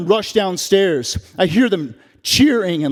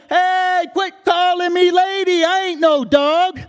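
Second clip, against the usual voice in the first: indignant retort; 9 semitones higher than usual. Acted. Mom snaps back at cop.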